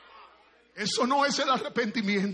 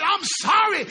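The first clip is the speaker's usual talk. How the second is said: "I'm sorry" shouted louder and higher in disgust; fed-up shout; 8 semitones higher, 9 dB louder, slower than usual. Acted. Preacher fed up with empty apologies, shouting. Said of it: "Yo estoy cansado del".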